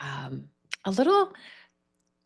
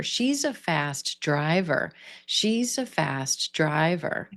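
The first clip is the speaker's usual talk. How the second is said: She's a fast driver with the main stress on driver; slow, land on driver; slower than usual. Shown as a demonstration. Teacher modelling the sentence, stress on driver. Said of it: "shift that stress to driver".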